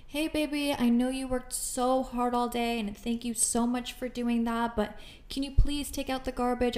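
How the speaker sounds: a touch of sweet coaxing, lightly voiced; sweet request. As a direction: coax him gently, honey-sweet. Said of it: "It's just like".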